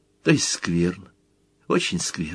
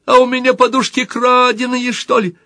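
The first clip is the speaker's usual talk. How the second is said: plaintive mother voice; 5 dB louder than usual. Pretend. Little Motl plays the mother, whining plaintively. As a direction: whimper it like a put-upon mother. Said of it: "Мотл маленький".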